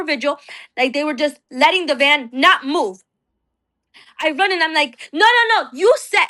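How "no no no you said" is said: higher, louder cry of no at the van; reliving the shout of no at a leaving van; retold scream. Wife screaming at the van taking her husband, higher cry. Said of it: "I started screaming at the van".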